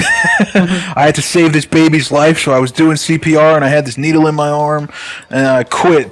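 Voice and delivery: high, laughing mock story; laughing tall tale. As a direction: tell it laughing, hamming it up.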